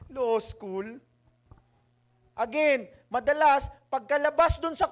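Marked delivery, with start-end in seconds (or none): 0.1-1.0 laughing, rising "Law school?"; laughing disbelief. Real, not acted.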